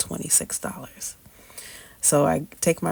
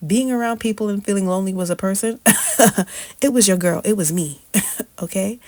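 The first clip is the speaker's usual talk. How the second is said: laughing it off; 4 semitones higher, 6 dB louder, faster than usual. Real, not acted. Laughing at own loneliness.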